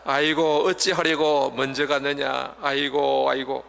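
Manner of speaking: a light imitation of mourners' aigo wailing; half-hearted lament, fading at the end; mock wailing. Mourner after a death, imitated aigo wailing. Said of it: "이렇게 웁니다".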